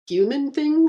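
high, loud indignant retort; offended warrior spitting his insult back; spat back. Acted. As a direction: fling the words back at him. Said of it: "she spat back".

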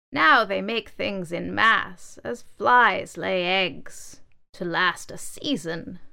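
slow, solemn elder voice; old table reminiscing. Acted. Carved table mourning lost craftsmanship, slow. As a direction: lament the lost craft, slowly.

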